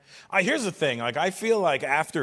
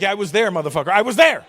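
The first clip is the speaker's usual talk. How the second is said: louder, higher irritated retort; annoyed snap; 5 semitones higher, 9 dB louder, faster than usual. Retold or imitated. Comedian snapping at a young know-it-all, louder. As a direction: bite back at the know-it-all.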